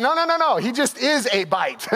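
flustered nursery worker. Retold or imitated. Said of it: "She's like".

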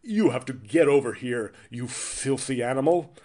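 mock dubbed British villain; stilted dubbed-film delivery; dubbed-movie villain. Villain ordering someone over in a colonization movie, dubbed-sounding. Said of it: "they almost sound dubbed".

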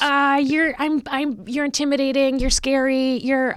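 high, halting, stammering whine; imitating someone too scared to speak; mock intimidated fan. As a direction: stumble over the words, pitched well up. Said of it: "anything in that tone of voice".

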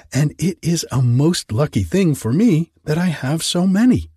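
a simple grateful little gardener; Hans, meek gardener. A narrator's reading.

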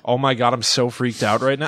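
deadpan mock panic; no fear. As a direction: claim to be scared in an everyday monotone. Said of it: "no fear in your voice".

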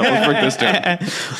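slow, mock-dramatic repeat; slow drawn-out. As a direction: stretch each word out slowly.

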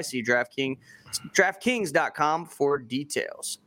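upbeat ad read; booming prize announcer. Acted. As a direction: sell the prize giveaway with energy. Sponsor ad read.

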